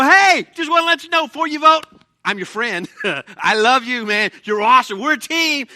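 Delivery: mock last-minute gushing, high and loud; panicked flattery before the vote; a contestant begging too late, gushing; frantic pleading. Last-second plea before the vote.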